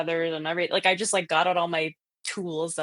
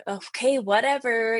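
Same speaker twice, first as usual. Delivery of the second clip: retold know-it-all brush-off, pitched up; feigned nonchalance; 4 semitones higher, 3 dB louder than usual. Young ghost hunter brushing off the worried friend, feigned nonchalance. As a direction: act like everything's fine. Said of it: "trying to act like I knew it all, like everything was fine".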